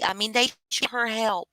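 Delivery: ordinary delivery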